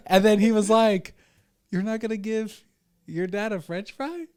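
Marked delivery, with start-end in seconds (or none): 1.7-4.2 high-pitched, incredulous dad question; mock disbelief. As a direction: ask as a dad playing at being wounded. Acts father refused a French fry.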